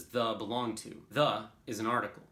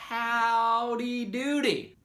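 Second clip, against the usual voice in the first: drawn-out cartoon greeting; 12 semitones higher, 6 dB louder, much slower than usual. Acting out interjection examples.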